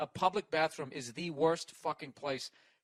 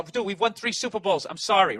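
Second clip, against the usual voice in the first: loud bar retort; 3 semitones higher, 7 dB louder than usual. Retold or imitated. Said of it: "I go".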